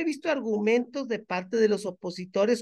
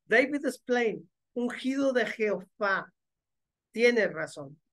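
ordinary talk, nothing marked

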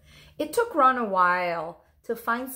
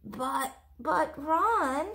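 startled protest; 7 semitones higher, much slower than usual. Acted. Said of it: "she started to say".

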